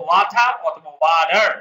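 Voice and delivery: first "ওয়াটার" as wa-tha, second as wa-dar; accepted pronunciations. Shown as a demonstration. Teacher gives students two options, "ওয়াটার" said as wa-tha, then wa-dar. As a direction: contrast British t and American d in "ওয়াটার". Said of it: "আমরা বলবো".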